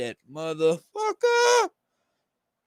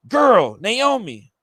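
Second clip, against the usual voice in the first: calling out; 4 semitones higher, 7 dB louder, much slower than usual. Acted. Calling out to Naomi.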